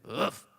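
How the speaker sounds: low, short dog huff; begging dog puff; imitated dog huff. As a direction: huff like a dog creeping closer. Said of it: "Then he goes".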